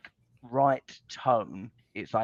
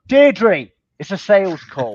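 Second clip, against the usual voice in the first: loud, high and blunt, blasting the news; too loud for the sales opener; blunt loud delivery; 5 semitones higher, 9 dB louder than usual. Retold or imitated. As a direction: hit her with it hard and loud. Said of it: "and you go".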